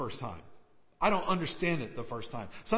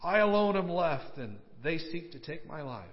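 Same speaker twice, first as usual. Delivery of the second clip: hammed-up lament, higher and stretched, falling away at the end; mock self-pitying complaint with pauses for effect; drama queen; 4 semitones higher than usual. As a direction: play the wronged prophet, overdramatic. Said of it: "Can you say drama queen a little bit here?".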